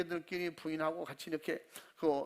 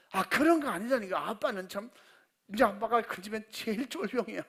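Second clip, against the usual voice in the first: 높고 크게 핀잔주듯; 어이없다는 듯 목소리 높여 쏘아붙이기; exasperated retort; 4 semitones higher, 4 dB louder than usual. Retold or imitated. Daughter scolds her father. (아빠에게 핀잔주는 딸, 높고 크게 타박하며)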